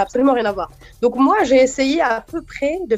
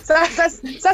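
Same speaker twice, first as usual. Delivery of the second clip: a light Ivorian nouchi lilt, higher; Ivorian nouchi accent; 5 semitones higher than usual. Pretend. Interviewee slipping into Ivorian nouchi on air, lightly. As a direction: slip briefly into Ivorian nouchi. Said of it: "c'est le côté nouchi qui est en moi".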